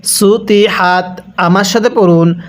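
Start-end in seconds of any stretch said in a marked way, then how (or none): 0.0-1.2 সুতি with a careful emphatic Arabic t in তি; correct Arabic ত. Shown as a demonstration. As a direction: model সুতি carefully, ত not softened to a plain তা. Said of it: "কিভাবে পড়তে হবে".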